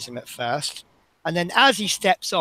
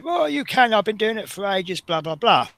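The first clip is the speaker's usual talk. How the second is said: mock passenger excuse; 6 semitones higher than usual. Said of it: "he gave me this story about".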